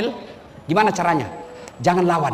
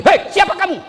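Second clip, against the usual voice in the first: much higher, louder frightened shout; startled cry; 13 semitones higher, 5 dB louder than usual. Acted. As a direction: jump back in shock. Startled husband sees a jinn. (berteriak kaget)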